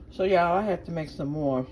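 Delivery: talking while chewing a donut; mouth full. Real, not acted. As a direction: speak around a bite of food. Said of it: "sorry, I'm chewing on some".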